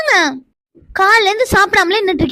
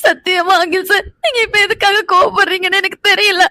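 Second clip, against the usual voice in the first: upset and crying, pleading not to be blamed; crying as you plead; tearful pleading. Acted. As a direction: protest innocence through tears. Wife tearfully pleads with angry husband.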